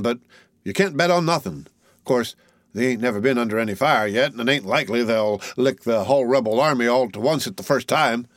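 lightly voiced soldier thinking aloud; musing tall soldier. Tall soldier reckoning the regiment's chances for the youth, lightly voiced. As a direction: ramble through his reckoning.

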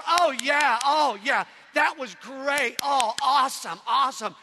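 loud, drawn-out mock approval; gushing congregation. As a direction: heap hammed-up praise on the singer. Congregation applauding the lady's singing, acted.

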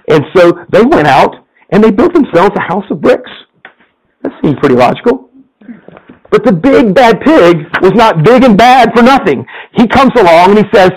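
lively storyteller reading a fable to the congregation; story narration. A narrator's reading. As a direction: tell it like a bedtime tale, playful. Pastor reads a story aloud.

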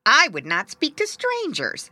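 high, loud, snooty willow; proud willow tree. Acted. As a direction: declare it loudly and proudly.

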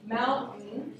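Mountain said carefully with a clear T. Shown as a demonstration. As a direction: pronounce the T in Mountain. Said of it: "you stick the T back in".

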